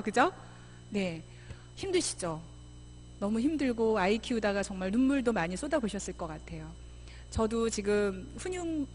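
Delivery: ordinary talk, nothing marked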